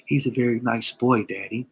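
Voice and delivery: lightly voiced little boy; a hint of a small child, sweet and matter-of-fact; son's voice. Dad quoting his young son about Kevin, lightly voiced little boy. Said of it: "I'm gonna start talking like my son".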